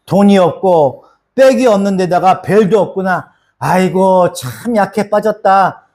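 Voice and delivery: mild scornful jeer at a weakling, slow at the end; lightly voiced mocker calling someone a weakling; mocking sneer. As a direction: sneer like a scoffing bystander. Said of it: "이렇게 얘기하잖아요".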